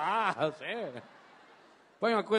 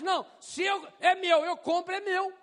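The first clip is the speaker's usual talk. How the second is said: mock possessive; 10 semitones higher than usual. Possessive person mocked.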